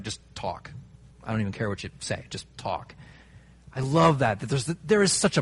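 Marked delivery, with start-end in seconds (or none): 0.0-2.9 just talk, soft and low, almost under the breath; a preacher murmurs "just talk" as if to a friend with a beer; hushed, easygoing coaxing. Retold or imitated. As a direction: coax a friend to relax, quietly. Relaxed friend chat over beer.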